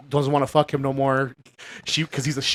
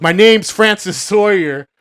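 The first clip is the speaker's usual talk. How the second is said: quoting Psycho; 3 semitones higher, 4 dB louder than usual. Retold or imitated. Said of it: "he goes".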